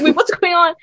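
high, half-laughing mock alarm; light imitation of shouting; retold shout. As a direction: call out in confusion, amused in the retelling. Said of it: "like, shouting at the time".

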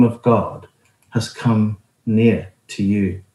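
measured Bible reading, slowing and softening at the end; scripture reading. Acted. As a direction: read the verses calmly, letting the last line settle. Reads scripture passage aloud.

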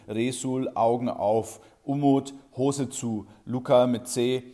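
loud stern orders, name after name; rapid-fire orders. Acted. Teacher calls out each pupil, loud barked orders. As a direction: fire commands down the rows.

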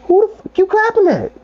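very high indignant retort; aggravated. Retold or imitated. Overheated server answering the clapping lady, high aggravated retort. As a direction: fire back in mock outrage, pitch way up. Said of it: "I was too aggravated".

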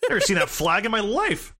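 incredulous, rising questions; baffled, like you've just discovered something unheard of; mock disbelief. Retold disbelief at unknown countries.

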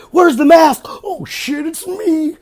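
cartoon unmasking. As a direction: play the villain reveal. Scooby-Doo unmasking parody.

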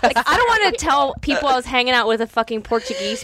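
playfully indignant through laughter; mock outrage. Teasing co-host over secret Portuguese roots, laughing mock outrage. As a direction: act betrayed, laughing as you go.

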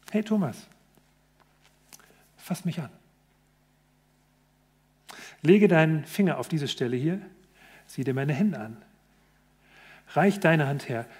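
soft, quiet, tender coaxing; gentle invitation. Retold or imitated. Jesus gently invites doubting Thomas to touch him. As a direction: draw him in softly.

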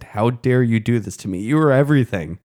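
half-voiced hurt outburst at the one who left; understated mock fury; mildly acted anger. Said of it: "how angry she was".

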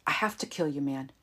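calm, even statement of intent. Acted. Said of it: "he said calmly".

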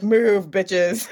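playful diva command, drawn-out first word; overly dramatic. Acted. Cosplayer sweeping through a convention, overly dramatic. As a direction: stretch the first word like a show-off. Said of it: "be super overly dramatic".

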